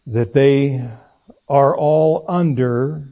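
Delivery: slow, emphatic "under", held before moving on; stress on under. Shown as a demonstration. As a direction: lean slowly on "under". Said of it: "I emphasize the word under".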